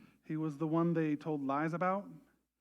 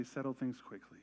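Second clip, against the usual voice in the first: gentle counsel; 2 semitones lower, slower than usual. Retold or imitated. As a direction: counsel them tenderly. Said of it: "His encouragement is to say".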